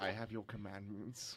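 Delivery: low solemn commandment reading; mock biblical prophet. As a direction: hand down the law like a prophet. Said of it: "like a biblical".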